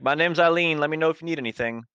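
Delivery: sweet small-town bartender; Eileen the bartender. Acted. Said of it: "He's like, like".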